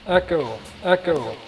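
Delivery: echoing voice effect. Shown as a demonstration. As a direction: call it out through an echo. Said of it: "teacher testing voice effect".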